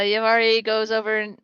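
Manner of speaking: ordinary delivery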